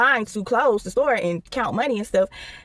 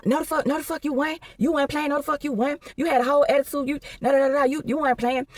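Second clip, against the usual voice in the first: higher, snapping retort in a lightly voiced coworker; mock angry coworker; 5 semitones higher than usual. Coworker snapping back at the teller, mock angry. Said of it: "going off, cussing".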